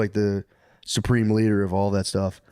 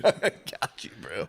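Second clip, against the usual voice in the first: whisper; 4 semitones lower, 6 dB quieter than usual. Acted. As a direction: whisper back, nearly laughing. Secret fist bump reply.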